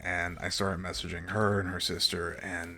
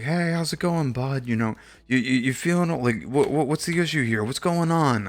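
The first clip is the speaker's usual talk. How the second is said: much higher, louder chummy attendant voice; pushy attendant; 6 semitones higher, 9 dB louder than usual. Retold or imitated. Attendant accosting the waiting traveller, higher and louder. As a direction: play an overbearing airport worker.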